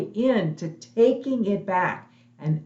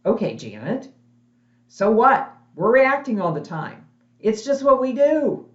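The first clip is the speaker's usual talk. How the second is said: louder, higher mock-skeptical challenge; skeptical listener; 4 semitones higher, 4 dB louder than usual. Webinar attendee doubting Janet's point, mock-dismissive and louder. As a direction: wave it off like an unconvinced webinar attendee. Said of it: "So you might be wondering".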